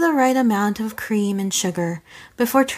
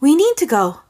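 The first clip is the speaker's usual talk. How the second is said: urgent; 5 semitones higher, 5 dB louder than usual. Acted. Urgent pull away.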